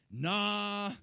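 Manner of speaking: high, loud, eager protest; imitated dismissive disciples. Disciples brushing off Jesus's warning, excited imitated denial. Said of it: "they were just like".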